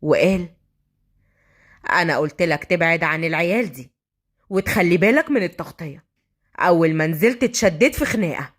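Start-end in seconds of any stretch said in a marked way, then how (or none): 1.9-8.5 low, cool reprimand; cold superior officer. Acted. General to undercover officer, cold low reprimand. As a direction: lower the voice and chide coolly. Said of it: "وابتسم بس ببرود".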